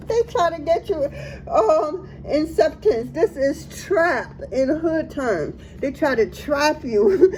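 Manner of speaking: laughing. Real, not acted. Reader laughing about the entanglement trap. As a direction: let the laugh leak through.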